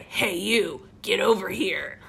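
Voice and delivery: badly faked New York smoker; lightly voiced New York tough-guy porcupine; smoker's New York accent. Porcupine with a cigarette calls out, mock New York accent. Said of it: "the New York accent sounds like a smoker now".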